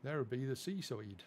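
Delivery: a faint hint of a regional English accent; light regional English accent. Real, not acted. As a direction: slip slightly into a local English accent. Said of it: "I said that in a regional accent".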